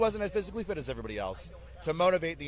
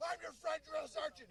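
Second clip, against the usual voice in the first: very high squeaky voice, softer; squeaky recruit; 11 dB quieter than usual. Retold or imitated. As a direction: squeak like a tiny eager private. Private squeaking reply.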